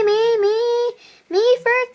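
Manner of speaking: put-on child shouting over classmates to go first; clamouring kid. Kids clamouring at sharing time.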